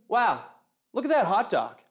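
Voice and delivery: lightly impressed barbecue fan; understated wow of a food lover. Acted. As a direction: admire it with mild, everyday enthusiasm. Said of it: "guy who really likes barbecue".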